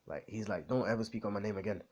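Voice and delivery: put-on British accent, broken by pauses. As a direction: insult them in a mock British accent. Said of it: "British accent for a bit".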